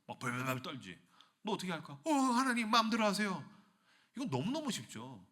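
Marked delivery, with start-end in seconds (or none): 2.0-3.4 higher, hammed-up pleading; mock frightened surrender. Sinner shown hellfire surrendering to God, mock fearful. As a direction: give in to God in playful panic.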